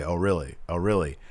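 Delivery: imitating a low-key muttered interjection; slightly hushed, skeptical aside; under his breath. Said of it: "respond under his breath and say".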